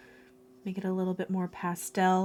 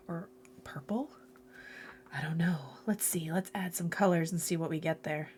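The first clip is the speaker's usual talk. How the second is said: whisper; 6 dB quieter than usual. Real, not acted. Muttering to herself while mixing.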